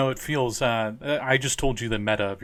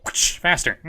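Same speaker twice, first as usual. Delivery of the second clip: loud, higher barked order; whip-crack shout; 7 semitones higher, 7 dB louder, slower than usual. Acted. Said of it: "and he's like".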